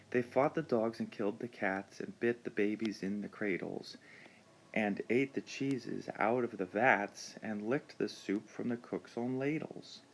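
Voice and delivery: rhythmic read-aloud; bouncing rhythm. Shown as a demonstration. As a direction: read with a lilting back-and-forth beat. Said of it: "I felt like it bounced along very nicely".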